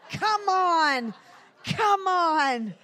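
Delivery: high, very loud preacher's shout; rally the congregation at full force; drawn-out exhorting yell; rousing shout. Real, not acted.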